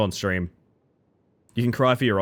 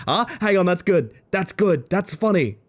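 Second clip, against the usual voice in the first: high, punchy bursts of approval; louder and higher, really tickled; tickled excitement; 9 semitones higher, 4 dB louder than usual. Real, not acted. Streamer reacts to a joke in chat, excited.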